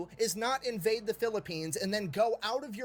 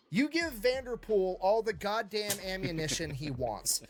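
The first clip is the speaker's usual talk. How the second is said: General Swing; slower than usual. Acted. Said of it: "General Swing ... and I quote".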